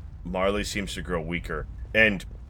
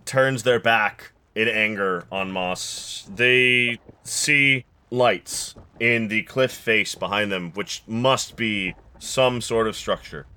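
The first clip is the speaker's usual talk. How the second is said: game master narration. A narrator's reading. GM sets the scene.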